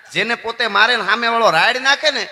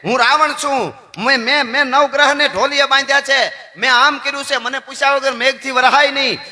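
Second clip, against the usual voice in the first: boasting Ravana; 4 semitones higher than usual. Retold or imitated. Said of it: "Ravan બહુ બોલવા માંડ્યો".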